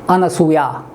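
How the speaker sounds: अनसूया spoken slowly, syllable by syllable; correct pronunciation. Shown as a demonstration. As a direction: model अनसूया for pupils to copy. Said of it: "ऐसा ही बोलें". (अनसूया का शुद्ध उच्चारण, धीरे-धीरे)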